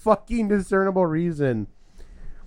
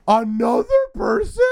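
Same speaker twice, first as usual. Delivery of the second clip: whiny; 5 semitones higher, 4 dB louder than usual. Retold or imitated. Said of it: "so fucking whiny about it".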